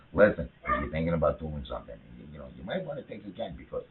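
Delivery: Columbo impression. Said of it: "I'll do this Columbo".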